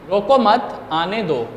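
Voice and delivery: "रोको मत," as one unit, break, then "आने दो" falling away; pause after मत. Shown as a demonstration. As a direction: join रोको to मत, pause, let आने दो drop. Message misread with pause after मत.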